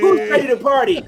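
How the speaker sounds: rowdy party animal. Retold or imitated. Mocking performer hype.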